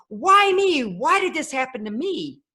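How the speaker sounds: put-on plaintive retelling of a teenage outburst; retold tearful cry. Teen driving home from the movie theater, retold tearful lament. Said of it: "still crying".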